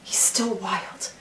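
slow, soft final line; quiet awe. Acted. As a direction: let it land slowly, in awe.

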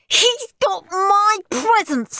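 very high, loud crying scream; tearful scream. A narrator's reading. Steve screams that Henry got his presents, crying. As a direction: wail it in outrage. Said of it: "screamed Steve".

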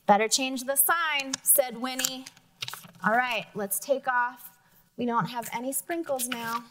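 lively storybook reading with character voices; reading to children. Acted. Teacher reading a picture book to the class, lively. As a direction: read it aloud to the class, bright and lively.

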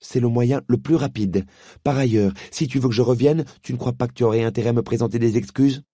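put-on girl holding out for an apology; miffed girl. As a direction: make him earn it. Polly demands apology.

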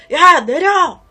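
loud furious order to get out; yelled command, full force; angry shout. Retold or imitated. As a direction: bark it at the driver. Men attack truck driver.

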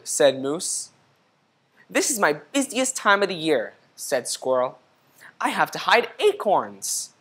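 gentle storybook read-aloud; reading to children. A narrator's reading. Teacher reading a picture book to the class, gentle read-aloud. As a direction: read it like story time for kids.

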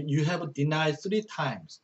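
each English word read slowly and clearly; slow verse reading. Shown as a demonstration. Teacher reading a verse to Korean students, slow and clear.

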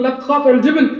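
high, loud and laughing through the quote; laughing mockery. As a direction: laugh it out in disbelief. (ضحك ساخر بصوت عال)

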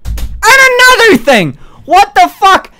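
high, loud ranting yell; ranting shout. Real, not acted. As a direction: launch into a tirade, full volume. Stream rant after partner leaves.

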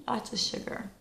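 soft whisper; whispered craving. Pretend. Confessing her craving to viewers in a whisper. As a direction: breathe "Lots of sugar." as a secret.

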